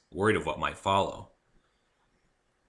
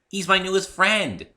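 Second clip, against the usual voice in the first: high, loud, stressing my; proud and cheerful; 12 semitones higher, 8 dB louder than usual. Acted. Pinkie proudly presents her new friend, high and bright. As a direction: beam with pride.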